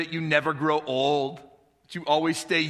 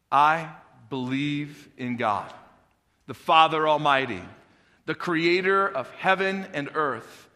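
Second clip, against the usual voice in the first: solemn creed recitation. Acted. Congregation recites Apostles' Creed.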